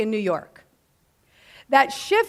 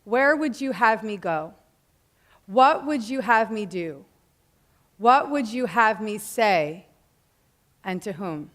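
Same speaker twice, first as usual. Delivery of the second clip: recited prayer. Retold or imitated. Speaker retells her prayer from A Course in Miracles, slowly recited. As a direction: recite it as a prayer, pausing after each question. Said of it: "I said my great prayer".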